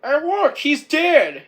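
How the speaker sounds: high, loud exclamation; Kimley. Retold or imitated. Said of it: "Kimley says".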